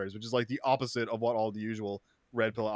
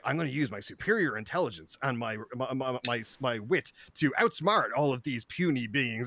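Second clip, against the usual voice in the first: anime villain monologue. Retold or imitated. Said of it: "doing anime villain, uh, monologues".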